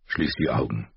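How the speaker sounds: low, soft, gentle; gently. A narrator's reading. Robb soothes his exhausted mother, gently. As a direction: soothe her like a worried son. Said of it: "sagte er sanft".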